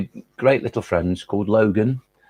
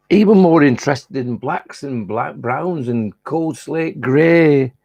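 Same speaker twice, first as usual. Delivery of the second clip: put-on generic Lancashire accent in measured verse; unhurried Lancashire recital with drawn-out line endings; Tony the Butterfly; 3 semitones higher than usual. Butterfly on food, Lowry and living forever, Lancashire accent. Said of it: "It's to be recited in a Lancashire accent".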